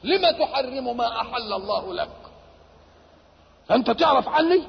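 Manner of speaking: voicing a divine reproach, pitch climbing; reproachful. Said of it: "ده ربنا عاتب رسول الله".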